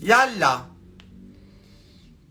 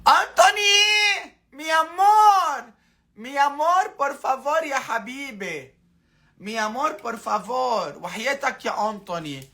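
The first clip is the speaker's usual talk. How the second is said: mock tearful pleading; 4 semitones higher than usual. Pleading with Anthony for tears, hammed-up weeping voice. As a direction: pretend to cry while begging Anthony in Spanish.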